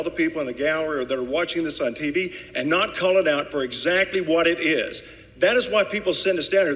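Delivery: rising heat, pushing harder line by line; worked up. Real, not acted. Senator scolding colleagues in the chamber, worked-up rebuke. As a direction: scold the chamber, getting fired up. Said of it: "I'm getting worked up".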